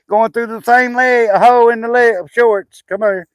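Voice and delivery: high, loud laughing talk; amused, loud and high-pitched; real laughing. Real, not acted. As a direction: laugh through the words. Laughing while dressing small child.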